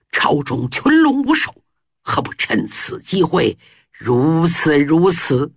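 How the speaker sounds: low, slowed, gritted-teeth menace; through gritted teeth. Acted. Zhao Gao urging the prince, gritted-teeth menace. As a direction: grind out the plot like a ruthless schemer. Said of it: "咬牙地说".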